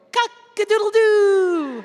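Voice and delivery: high, loud cock-a-doodle-doo with a laugh; rooster crow. Shown as a demonstration. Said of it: "you guys are gonna go".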